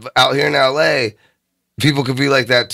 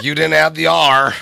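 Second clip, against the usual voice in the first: mock scolding; 4 semitones higher than usual. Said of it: "They're like".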